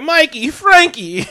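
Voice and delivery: high, slow, hammed-up calling of names; mock tough-guy call. Friend mocking the movie's stereotyped brothers, hammed-up slow call. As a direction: call the brothers in like a cartoon mob boss.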